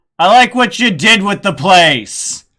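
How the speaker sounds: very loud, booming, high yelled call. Voicing a character calling back from the temple: yelling back. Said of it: "he just yells back".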